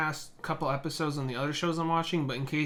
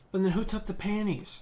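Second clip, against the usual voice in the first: imitating Ibuki; 5 semitones higher than usual.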